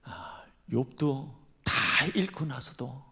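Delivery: ordinary talk, nothing marked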